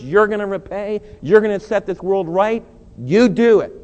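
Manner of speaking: building from earnest prayer to a loud, full-voiced plea; fervent prayer. An angry man handing his anger to the Lord, rising to loud. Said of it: "Come to the Lord Jesus and says".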